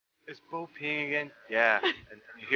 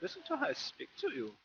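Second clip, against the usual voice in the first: mock American accent; 10 semitones higher than usual. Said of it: "American accent".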